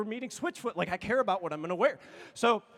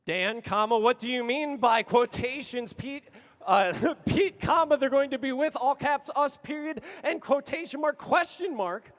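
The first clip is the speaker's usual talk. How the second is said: louder and higher, punctuation shouted; exasperated loud reading; 4 semitones higher, 6 dB louder than usual. Retold or imitated. Repeating the question to his friend, louder and exasperated. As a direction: read every comma as if losing patience. Escalating text exchange.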